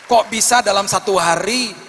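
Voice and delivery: loud, high marvelling; amazed exclamation. Real, not acted. Preacher marvelling to the congregation, loud and high. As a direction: sell the miracle.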